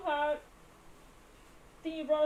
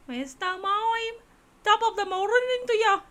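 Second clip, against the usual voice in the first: hammed-up Irish greeting to Mister Mime; Irish accent; 8 semitones higher than usual. Streamer mocking the Irish character's greeting in a stage-Irish lilt. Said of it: "That's how he sounds like".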